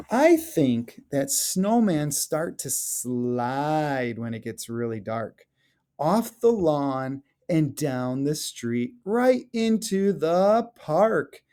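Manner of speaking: lively storybook read-aloud, rising at the end; expressive children's story narration. Acted. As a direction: read it like a picture book to the class. Teacher reads picture book aloud.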